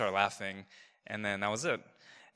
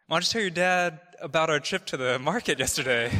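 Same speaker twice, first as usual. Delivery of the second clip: imitating prodding mom; 5 semitones higher, 5 dB louder than usual. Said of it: "she just kept on prodding me".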